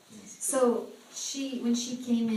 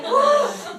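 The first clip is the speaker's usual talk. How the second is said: loud, very high whoa; big high shout of wonder; amazed whoa; 11 dB louder than usual. Retold or imitated. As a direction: blown away by the news. Team amazed at her story.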